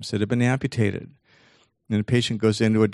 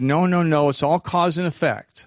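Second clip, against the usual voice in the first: objecting expert; 5 semitones higher than usual. Acted. Mimics a psychologist objecting.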